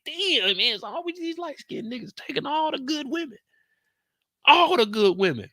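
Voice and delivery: very high falsetto whine, hammed up; mock lament. Streamer griping about rivals taking women, high mock lament. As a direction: wail it way up high in comic outrage.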